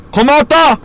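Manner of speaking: high bright goodbye shout; playful farewell. Pretend. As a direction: call it out high and loud. Farewell to dropped item. (높게 외치는 작별)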